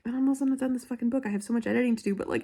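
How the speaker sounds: ordinary talk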